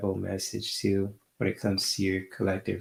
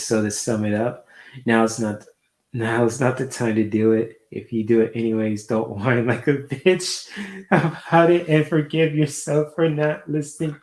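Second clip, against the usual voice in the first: mock reading voice; 4 semitones higher, 5 dB louder than usual. Reads viewer comment in put-on voice.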